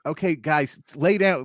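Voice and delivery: half-joking plea to stay down; pleading onlooker. Retold or imitated. Voicing a fight onlooker.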